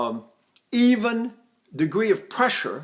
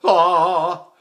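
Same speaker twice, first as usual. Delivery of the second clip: quick crack; 6 dB louder than usual. Shown as a demonstration. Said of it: "or quickly".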